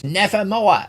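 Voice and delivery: a lightly voiced halfling shout; a hint of a small halfling crying out. Kenku shouts at the party in halfling voice. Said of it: "in a halfling voice".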